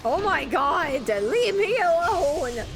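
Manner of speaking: drawn-out, exasperated whine; exasperated plea. Real, not acted. Gamer begging enemies to leave off, exasperated. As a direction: drag it out, pleading to be left alone.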